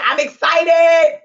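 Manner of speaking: loud, drawn-out burst of excitement; excited cheer. Retold or imitated. Reading out a viewer's comment, excitedly. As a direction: stretch it out, loud and thrilled.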